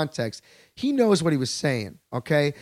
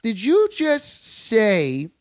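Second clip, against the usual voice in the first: incredulous outrage; 3 semitones higher, slower than usual. Retold or imitated. To the expat, a slow outraged challenge. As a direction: spell out each word in outrage. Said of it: "in your bullshit acquired French accent".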